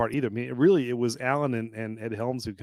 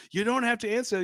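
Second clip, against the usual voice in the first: higher, nervous husband voice; meek henpecked husband; 10 semitones higher than usual. Retold or imitated. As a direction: play the whipped husband. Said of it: "he goes".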